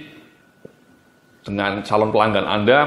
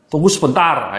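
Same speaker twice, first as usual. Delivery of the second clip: "Tunggu sebentar" said higher and louder, cut short; curt brush-off; 4 semitones higher, 3 dB louder than usual. Shown as a demonstration. Trainer mimics a call center cutting a customer off curtly. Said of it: "ini sering kata-kata".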